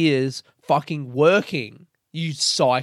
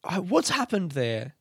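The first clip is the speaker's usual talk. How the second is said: jolted by the strange pair vanishing; baffled surprise; 5 semitones higher, slower than usual. Retold or imitated. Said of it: "it just was like".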